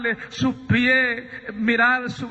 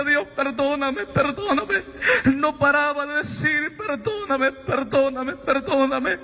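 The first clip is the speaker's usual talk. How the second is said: higher, crying plea for forgiveness; tearful pleading; 3 semitones higher than usual. Retold or imitated. Sabino begs God for forgiveness, tearful and pleading. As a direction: beg for forgiveness through tears. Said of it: "Empecé a llorar desesperadamente".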